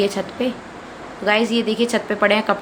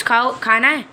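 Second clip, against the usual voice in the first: very high sing-song offer of a biscuit; coaxing offer; 5 semitones higher than usual. Real, not acted. Mother tempting her sick son with a biscuit, very high and sing-song. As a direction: lilt it up high to tempt him.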